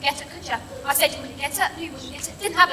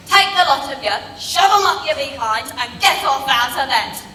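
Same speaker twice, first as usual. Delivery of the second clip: cross tirade; 3 dB louder than usual. Acted. Nan telling everyone off.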